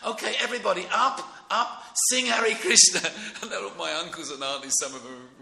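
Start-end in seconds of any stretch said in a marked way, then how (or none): 0.0-3.0 loud, high call to the crowd; rousing call. Retold or imitated. A singer calling the congregation up to sing, loud and high. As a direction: rouse the whole room to stand and sing. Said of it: "he said".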